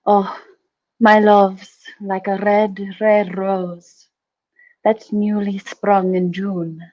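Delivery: put-on a light Scottish accent with rolled Rs, reciting Burns. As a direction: recite the love poem in a gentle Scottish lilt. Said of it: "attempt my Scottish accent".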